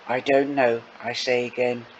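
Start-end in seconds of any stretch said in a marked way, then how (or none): 0.1-0.8 voice cracking. Acted. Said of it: "my voice cracking".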